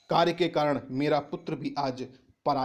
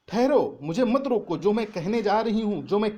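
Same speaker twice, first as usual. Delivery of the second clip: louder and higher, pleading urgently; Kaikeyi's loud plea; 5 semitones higher, 4 dB louder than usual. Acted. Teacher voicing Kaikeyi begging the assembly to hear her, loud urgent plea. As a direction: cry out to stop them, as Kaikeyi. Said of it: "Kaikeyi कहती है".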